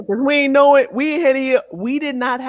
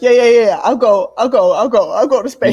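hammed-up eagerness; 5 dB louder than usual. Acting astronaut eager to leave family.

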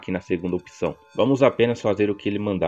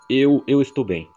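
flustered stammer; 5 semitones higher, 6 dB louder than usual. Acted. Chosen line acted out again.

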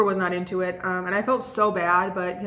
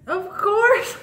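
much higher and a little louder, a delighted of course; eager yes; 11 semitones higher, 4 dB louder than usual. Retold or imitated. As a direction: answer as if you've waited all night.

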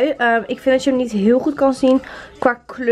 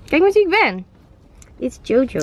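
playful Jojo impression; 3 semitones higher than usual.

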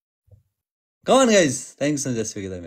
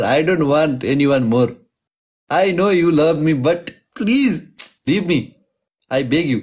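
higher, hammed-up begging; mock pleading; 3 semitones higher, slower than usual. Streamer pretending to beg an admirer to leave him, mock pleading. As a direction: play at pushing off an admirer.

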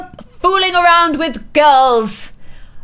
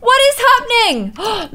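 voicing startled Sim; 9 semitones higher than usual. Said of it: "She's like".

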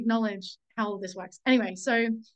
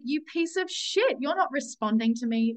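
angry blaming; 4 semitones higher than usual. Retold or imitated. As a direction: spit it out as a retold furious accusation. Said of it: "so angry and blaming and vicious".

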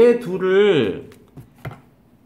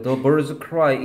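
reads the English sentence very slowly; slow example read; much slower than usual. Shown as a demonstration. Teacher reading an example sentence to students, very slow. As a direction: spell out each word of the example. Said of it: "얘는 접속사라 뒤에 완전문 나와야 돼요".

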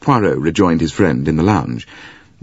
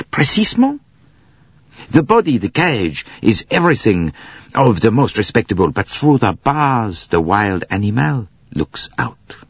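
put-on high, accented detective, RESPECTABLE falling; emphatic Poirot; 5 semitones higher than usual. A narrator's reading. Poirot insists on the beast within, high and emphatic. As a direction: make the point dramatically in a raised voice.

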